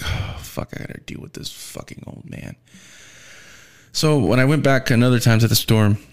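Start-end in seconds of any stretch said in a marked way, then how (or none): 0.0-2.6 whisper. Retold or imitated. Drooping inner groan.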